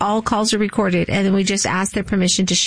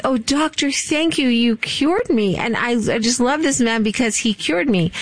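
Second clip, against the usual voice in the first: lightly acted gushing thanks, pitched up at first; grateful patient; 3 semitones higher than usual. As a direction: imitate a thankful patient praising the doctor. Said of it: "or they say".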